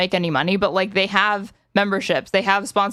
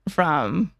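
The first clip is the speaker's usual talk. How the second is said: ogre voice; 4 semitones lower than usual. Real, not acted. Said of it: "the ogre voice here".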